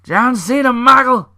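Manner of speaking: high, loud ring-announcer call; mock announcer shout. Hyping up John Cena like a ring announcer, loud and high. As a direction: belt the names out like an arena intro. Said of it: "mock ring announcer call".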